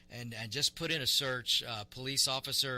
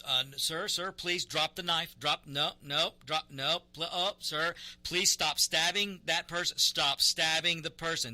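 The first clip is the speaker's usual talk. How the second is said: loud, slow, pleading shouts at a man with a knife; frantic yelling; 5 semitones higher, 7 dB louder than usual. Retold or imitated. Officer in the video shouting at the man with the knife, frantic pleading yell. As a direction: yell it, begging him to drop the knife. Officer yells at a stabbing suspect.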